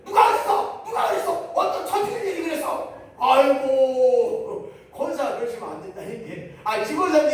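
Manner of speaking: hammed-up outraged questioning; mock furious demand. Acted angry confrontation. (훨씬 높고 크게 따지는 흉내)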